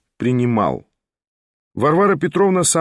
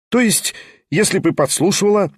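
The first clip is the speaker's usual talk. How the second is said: cheerful raised voice; 7 semitones higher than usual. A narrator's reading. Pyotr cheerfully raising his voice toward the door, higher. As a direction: jump in brightly. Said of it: "мигом подхватил весело, возвышая голос".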